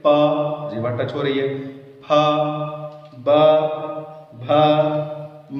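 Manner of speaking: प फ ब भ म with both lips; labial series demo. Shown as a demonstration. Teacher shows lip sounds in a practical drill. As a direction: press the lips for each sound, one by one. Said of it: "बोलिए".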